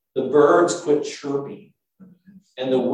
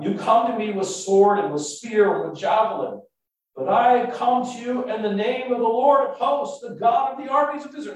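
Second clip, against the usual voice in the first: mild declamation; 8 semitones higher, 4 dB louder than usual. Acted. David answers Goliath in declamation.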